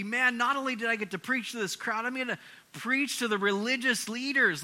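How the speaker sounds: thrilled at the chance, voiced for someone else; imitating eager excitement.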